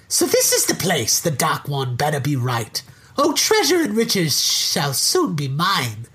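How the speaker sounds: scheming little leprechaun. Acted. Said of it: "I'll do the voice".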